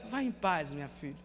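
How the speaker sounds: soft and gentle, fading to a hush on minha filha; tender blessing. Shown as a demonstration. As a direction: bless her gently, like a father.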